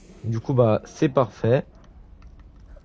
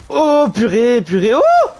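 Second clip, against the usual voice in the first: shaken; 11 semitones higher, 7 dB louder, slower than usual. Real, not acted. Still shaken after scream.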